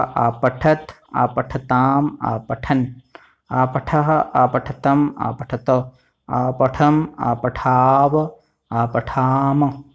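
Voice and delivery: slow, measured reading of the verb forms; recitation. Shown as a demonstration. Teacher reciting the forms for students to repeat slowly. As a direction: chant each form as a model to copy. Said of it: "इस तरह से ही बोलना जैसे मैं बोल रहा हूँ".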